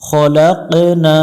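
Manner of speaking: খলাকনা slow, the ক bouncing; qalqala. Shown as a demonstration. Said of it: "কলকলা করতে হবে". (খলাকনা কলকলা সহ ধীরে)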